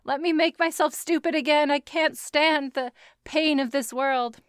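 lightly voiced tortured baby; mock whiny baby. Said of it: "he's like".

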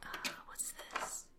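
very soft, secretive whisper; hushed and conspiratorial; sneaky whisper. Acted. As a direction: whisper so nobody catches you. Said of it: "Why am I whispering?".

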